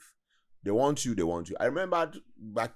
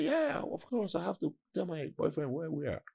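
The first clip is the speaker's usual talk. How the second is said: high mock girlish voice; girl's casual reply; 8 semitones higher than usual. Man imitating the girl explaining her boyfriend call, high and mock girlish. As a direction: lightly voice the carefree girl.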